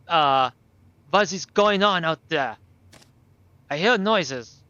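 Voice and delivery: put-on captive boy calling out. Captive boy asks about noises outside, calling out. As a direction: call out warily to whoever is outside.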